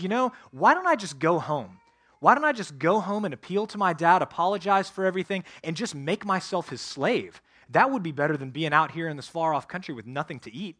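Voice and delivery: lightly voiced hungry son planning his way home; repentant younger son. Preacher voicing the younger son deciding to return, lightly acted.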